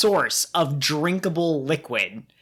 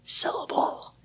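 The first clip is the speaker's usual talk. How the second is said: over enunciating; 6 semitones lower than usual. Retold or imitated. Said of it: "I don't enunciate worth crap".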